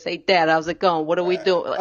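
full-blown Sopranos-style Boston accent; thick Boston Italian accent, played up. Shown as a demonstration. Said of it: "I'd start talking like this".

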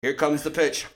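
lightly voiced stadium announcer; mock baseball announcer. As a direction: introduce the batter like an announcer. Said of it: "say I was a baseball announcer".

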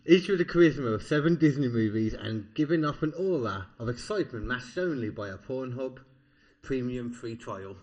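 big, loud storyteller delivery easing off at the end; story narration. Acted. Co-host retaking the story line after a burp, story narration. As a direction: declaim the line cleanly like a grand tale.

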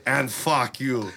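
slow Austrian-accented cursing; drawn-out action-hero put-down; feed the line as a Terminator impression; Arnold. Shown as a demonstration. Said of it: "hey, say".

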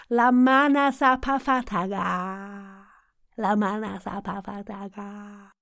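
slow stretched syllables, fading on the repeat; vocal warm-up. Shown as a demonstration. Coach repeats the exercise, slow drawn-out chant.

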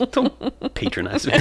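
high, slow protest through laughter; laughing protest. Real, not acted. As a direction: protest while cracking up. Teased with "good", protests while laughing.

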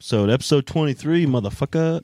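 hyped intro. Acted. Loud hyped episode intro.

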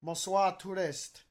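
loud, high, hammed-up French greeting; mock French announcement. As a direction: bellow it like a comic Frenchman at tourists.

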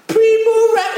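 breaks into a high laugh mid-word; laughing mockery. Mocking the posh recipe word.

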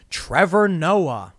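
names Trevor Noah very slowly; slow drawn-out name. Real, not acted. Reading the headline, slowly drawing out Trevor Noah. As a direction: drags out Trevor Noah syllable by syllable. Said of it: "I'm not gonna say that stupid word".

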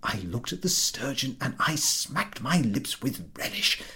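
high, hushed, chuckling over-explanation; nervous host. A narrator's reading. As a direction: laugh it off too eagerly. Ahiniv nervously explaining to Pardacqua.

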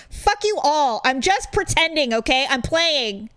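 defiant mock outburst. Friend imagining a retort to judgy family, mock defiant. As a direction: play at telling off the critics.

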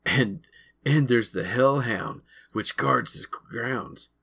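slow, drawn-out spooky hint; slow down to sound spooky; mock creepy. Greg telling of the hellhound, slow mock creepy. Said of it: "his voice low as if trying to be creepy".

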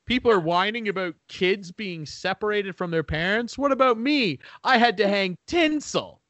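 lightly voiced complaining socialite; mocking Melania. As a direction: sneer it as a pampered first lady. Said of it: "she's like".

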